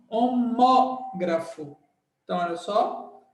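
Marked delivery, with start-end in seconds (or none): 0.1-1.8 homógrafo said slowly, stress on mó; stress demo. Shown as a demonstration. Teacher modelling homógrafo for the class, slow with stress on mó. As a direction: stretch homógrafo and lean on mó. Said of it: "você fala assim, ó".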